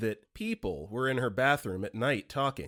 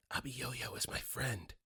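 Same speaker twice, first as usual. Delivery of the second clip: put-on slow hushed child whisper; 11 dB quieter, slower than usual. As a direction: whisper it slowly like a kid. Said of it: "Son whispering".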